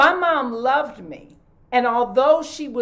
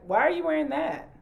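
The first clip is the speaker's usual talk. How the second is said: blunt; faster than usual. Retold or imitated. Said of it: "she'd be like".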